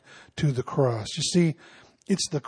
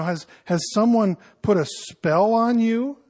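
playful teasing; 4 semitones higher than usual. Shown as a demonstration. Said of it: "I think he's kinda joking here".

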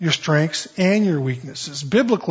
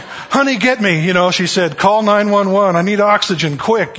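mock panic; 4 semitones higher, 4 dB louder than usual. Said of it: "she's just going".

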